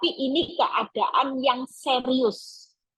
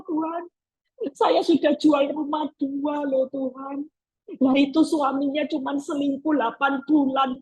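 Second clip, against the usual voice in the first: envious complaint; 3 semitones higher than usual. Retold or imitated. Believer complaining to God.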